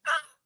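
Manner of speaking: high, soft cry, played for laughs; mock wail. Woman retelling nearly losing her sanity, mock wail. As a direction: squeal as if losing it.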